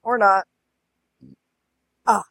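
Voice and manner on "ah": burped out; burping the words. Real, not acted. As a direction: talk through a burp. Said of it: "I'm gonna burp here in a minute".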